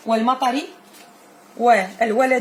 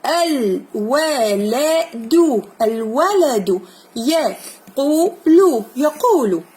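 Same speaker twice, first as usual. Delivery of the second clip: slow model reading; 4 dB louder, much slower than usual. Shown as a demonstration. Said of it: "teacher models slow reading".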